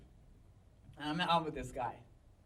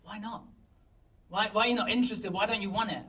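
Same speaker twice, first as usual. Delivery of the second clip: higher, quickening worried questions; concerned; 4 semitones higher, 4 dB louder, faster than usual. Retold or imitated. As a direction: ask as if troubled by the refusal. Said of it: "he looks really concerned".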